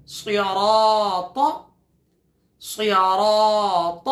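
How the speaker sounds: drawn-out tajweed recitation; slow chanted recitation; slow Quran recitation. Shown as a demonstration. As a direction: stretch the word for students to echo. Teacher recites word for repetition.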